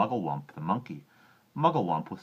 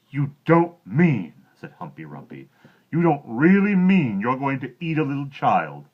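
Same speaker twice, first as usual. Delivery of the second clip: shocked hippo; 9 semitones higher, 13 dB louder than usual. Acted. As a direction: gasp it out in horror.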